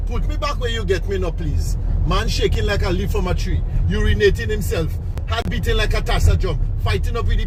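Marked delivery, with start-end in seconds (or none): 0.1-1.8 put-on spirit baby's demand. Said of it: "spoke to him very close to his ears by bawling".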